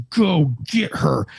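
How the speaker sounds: slow, deliberate mock-angry command; retold angry order. Mad partner sending the officer after her, terse slow order. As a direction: space the words out like an irritated superior. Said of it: "he's visibly mad at me".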